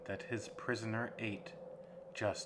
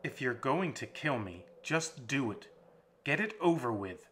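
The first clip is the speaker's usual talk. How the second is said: rising louder and higher, pleading to be finished; defeated plea; 4 semitones higher, 4 dB louder than usual. Acted. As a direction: get it over with, in despair. Beaten captive begging for death.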